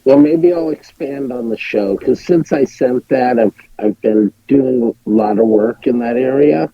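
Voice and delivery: muffled, tinny phone line; like talking from inside a tin can; tin can sound. Real, not acted. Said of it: "it sounds like you're in a tin can".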